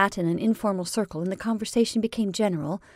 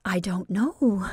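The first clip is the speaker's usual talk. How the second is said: slow, level, steady reply; steady and calm; slower than usual. Acted. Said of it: "she repeated steadily".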